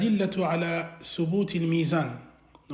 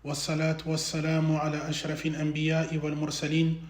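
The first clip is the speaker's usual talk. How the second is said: even, fast intoned Arabic; measured monotone religious preamble; formal opening invocation; 3 semitones lower, 3 dB quieter, much faster than usual. Acted. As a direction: intone the praises on one steady note.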